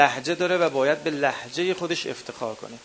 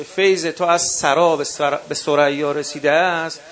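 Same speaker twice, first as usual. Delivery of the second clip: recited verse; 5 dB louder than usual. Shown as a demonstration. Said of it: "اگه وقتی میگید کلمهٔ سرا".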